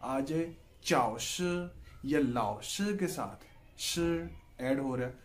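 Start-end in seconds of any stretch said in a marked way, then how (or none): 0.8-1.4 चाओ श said slowly as a Chinese word, a teacher's model; Chinese tone demo. Shown as a demonstration. Teacher models चाओ श for students, slow and careful. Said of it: "इसके साथ भी third tone है".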